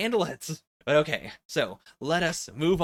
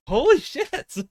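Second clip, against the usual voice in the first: much higher, louder excited yell; screaming excitedly; 13 semitones higher, 7 dB louder, slower than usual. Real, not acted. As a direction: shriek it out in delight. Stunned reaction to Bleach chapter.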